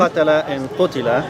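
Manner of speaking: careful Arabic "qatala", then "qutila" with its short u; Arabic pronunciation. Shown as a demonstration. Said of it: "the same word".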